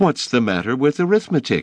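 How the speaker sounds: plainly astonished tone. Reading a story: teacher Miss Clapp questions David, astonished. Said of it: "Miss Clapp asked in astonishment".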